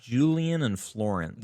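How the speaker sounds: slow, careful French accent on Julian and Florence. Shown as a demonstration. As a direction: say the names the way they do in Paris. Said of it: "How do you say that with a French accent?".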